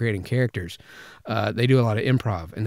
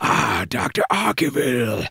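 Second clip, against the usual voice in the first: deep chest voice with a little rasp; 3 semitones higher than usual. Showing where a voice actor places the voice: G1 Megatron voice. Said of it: "Frank Welker places it further down in the chest with just a hint of raspiness".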